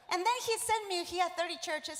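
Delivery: ordinary delivery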